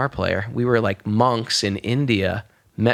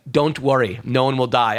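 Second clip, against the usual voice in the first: even, measured retold reassurance; matter-of-fact reassurance. Palm reader reassuring a worried client, matter-of-fact. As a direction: say it evenly, as a settled fact.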